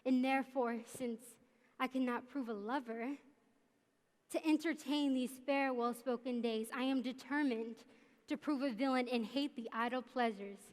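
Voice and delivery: Richard the Third. Acted. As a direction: deliver it like a brooding stage villain. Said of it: "I will perform a monologue from Richard the Third".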